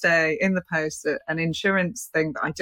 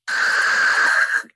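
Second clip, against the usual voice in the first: imitated strange noise; 4 dB louder than usual. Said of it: "we heard this noise".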